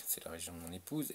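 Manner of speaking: soft whispered aside; whispering. Real, not acted. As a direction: whisper it in confidence.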